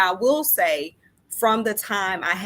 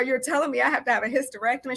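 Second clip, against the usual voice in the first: mock crying, high and tearful; 6 semitones higher than usual. Retelling a phone call to a gynecologist: retelling screaming while crying. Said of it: "I just started screaming on the phone, crying".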